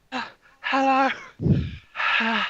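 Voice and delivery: high, loud puffed greeting; out of breath. Acted. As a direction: gasp it out after the stairs. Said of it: "he's super out of breath".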